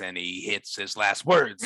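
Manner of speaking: a hint of Corellian drawl, last words leaned on; Han Solo. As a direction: lightly imitate a cocky pilot, hitting each phrase's last word. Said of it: "He talks like this".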